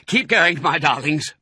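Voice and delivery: high, strained urging; panted. A narrator's reading. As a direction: pant out encouragement to the family while digging. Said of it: "panted Mister Fox".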